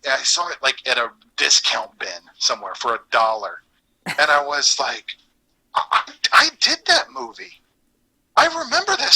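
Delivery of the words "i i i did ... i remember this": excited recognition. Retold or imitated. Retelling excited discovery.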